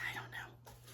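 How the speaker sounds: whispered sheepish shrug. Retold or imitated. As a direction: barely breathe the answer, embarrassed.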